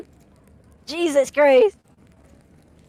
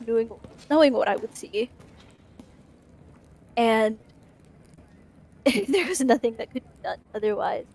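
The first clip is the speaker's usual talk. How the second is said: slightly cracked voice. Acted. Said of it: "with a slightly cracked voice".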